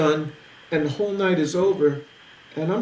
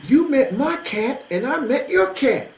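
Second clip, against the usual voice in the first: high, swooping, excited exclamation; imitated amazed delight; 9 semitones higher, 4 dB louder than usual. Imitating Steve after they exchanged stories, amazed delight. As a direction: imitate a friend marvelling at the coincidence. Retold friend marvels at swapped stories.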